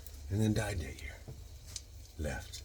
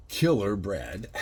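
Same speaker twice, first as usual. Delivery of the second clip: slow, amused reading; laughing at the brand name; 4 dB louder, slower than usual. Real, not acted. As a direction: chuckle through the name. Reads funny bread name.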